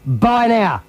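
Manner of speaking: slow, deliberate repeat; slow coached line. Shown as a demonstration. Host repeating the line for Benny, slow and deliberate. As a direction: say it slowly again for him to copy. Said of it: "Repeat again with me".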